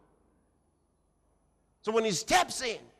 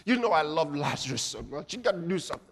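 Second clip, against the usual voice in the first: mock pleading prayer; 5 semitones lower, faster than usual. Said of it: "He didn't say".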